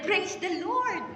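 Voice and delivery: high, slow, hammed-up "Praise the Lord"; mock pastor's praise. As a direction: imitate the showy pastor praising. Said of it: "Ganun siya". (ginagaya ang pastor, mataas at mabagal)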